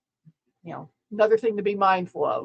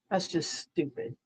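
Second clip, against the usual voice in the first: muttering; 2 semitones lower, 10 dB quieter than usual. Real, not acted. Muttered dismissal after rant.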